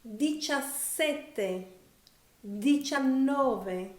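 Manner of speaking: Diciassette and diciannove slowly, double consonants held; Italian teacher demo. Shown as a demonstration. Teacher models Diciassette for English learners, slow and careful. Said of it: "as well as the double consonants".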